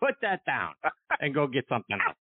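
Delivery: playful voice of conscience telling someone off; Gary Player. Retold or imitated. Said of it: "I hear Gary Player's voice in my head say".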